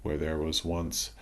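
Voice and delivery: calm meditation voice with long pauses between phrases; guided meditation. Acted. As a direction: ease listeners through releasing tension, leaving room to breathe. Leads a body relaxation meditation.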